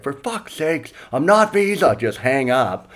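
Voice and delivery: imagined Australian at his wit's end; hammed-up exasperated Australian; mock exasperation. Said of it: "his wit's end".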